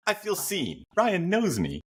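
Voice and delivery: high, laugh-tinged delight; amused, still laughing. Real, not acted. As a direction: giggle through it, tickled by the joke. Laughing after being teased.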